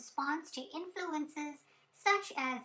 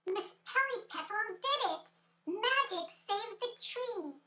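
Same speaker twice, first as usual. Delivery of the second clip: cheering fairies; 6 semitones higher than usual. Acted. Fairies cheer the saved tree.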